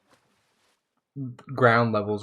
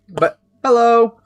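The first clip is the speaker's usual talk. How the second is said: excited greeting; 7 semitones higher, 9 dB louder than usual. Real, not acted. Greeting chat after chewing.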